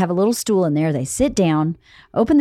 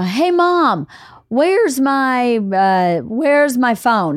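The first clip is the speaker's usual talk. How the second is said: yelling across the room; much slower than usual. Retold or imitated. Kid yelling for mom.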